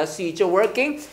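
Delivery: "See it, you're" said as "see-cher"; linked ch sound. Shown as a demonstration. Teacher confirms the sound for students, linked ch pronunciation. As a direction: let "it, you're" fuse into "cher" before "working". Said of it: "처로 발음 납니다".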